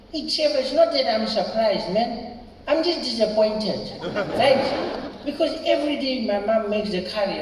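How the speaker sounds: high, exasperated complaining voice; Indian schoolboy friend. Retold or imitated. Schoolboy venting to his friend about leftovers, exasperated and building. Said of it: "And then he was like".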